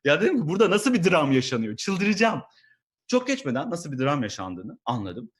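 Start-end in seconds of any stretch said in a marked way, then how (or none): 0.5-2.4 exasperated outburst. Retold or imitated.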